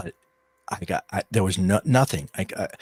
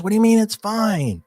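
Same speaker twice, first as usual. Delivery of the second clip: high, loud retold disbelief; imitating an indignant son; incredulous challenge; 11 semitones higher, 5 dB louder than usual. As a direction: throw the question back in alarm. Freaked-out son challenges father, retold.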